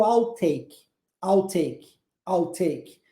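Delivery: "I'll take" as a separate drilled chunk, falling; broken into parts. Shown as a demonstration. Teacher breaks the long sentence down, drilled chunk "I'll take". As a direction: repeat "I'll take" with a pause after each. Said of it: "você pode quebrá-la em partes".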